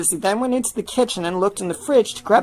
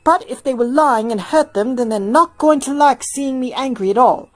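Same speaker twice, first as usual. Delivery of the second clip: serious tone; 5 semitones higher, 3 dB louder than usual. Acted. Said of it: "Hilda said in a serious tone".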